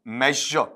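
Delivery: मेजर said as "mezh-uh", no final r; demonstrated zh sound. Shown as a demonstration. Teacher modelling how the word sounds, correct मेजर. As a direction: soften the middle of मेजर and drop the r. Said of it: "इसका sound ऐसे आएगा".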